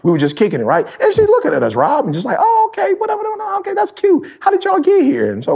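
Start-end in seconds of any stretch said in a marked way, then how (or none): 1.0-5.3 high, prim white lady voice, way up in pitch; high-pitched imitation of a surprised white lady; white woman voice. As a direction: mimic a condescending white woman. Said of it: "uh, white woman voice".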